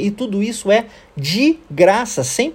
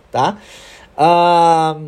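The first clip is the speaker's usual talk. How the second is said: ordinary delivery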